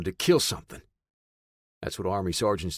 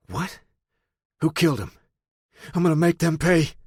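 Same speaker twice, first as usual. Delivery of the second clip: angry outburst; 8 semitones higher, 7 dB louder than usual. A narrator's reading. Hears brother is gone.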